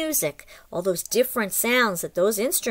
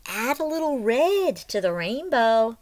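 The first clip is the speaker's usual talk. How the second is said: lively storybook read-aloud; reading to children. A narrator's reading. Teacher reads the story aloud to the class, lively storybook voice. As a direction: read it like a picture book to little ones.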